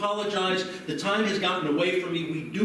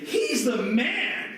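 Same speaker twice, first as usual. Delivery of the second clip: mock cheer; 6 semitones higher, much slower than usual. Shown as a demonstration. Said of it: "Say it like you mean it".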